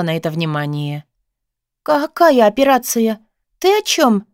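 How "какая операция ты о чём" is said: pained. A narrator's reading. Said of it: "с болью спросила я её".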